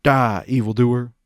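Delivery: loud battle cry. Acted. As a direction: roar it as you swing the sword. Sword attack battle cry.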